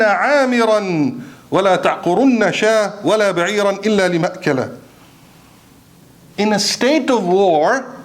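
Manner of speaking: declamatory khutbah style with deliberate pauses; forceful preaching. Acted. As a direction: preach it to the congregation in measured, weighty phrases.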